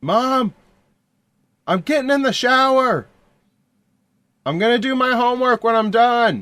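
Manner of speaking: put-on very high-pitched, boyish younger male voice. Describing a voice heard through a satellite dish, doing a younger male voice. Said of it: "you hear a younger uh, male voice".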